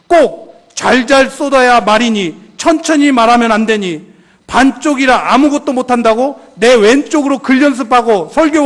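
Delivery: booming reproach from above, driven hard line after line; rebuking God. Retold or imitated. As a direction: thunder down a rebuke on a self-pitying servant. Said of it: "화에 아주 책망하는 소리를".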